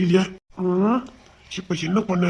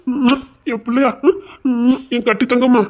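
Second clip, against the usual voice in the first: put-on baby talk; 4 semitones higher, slower than usual. Father cooing to his baby.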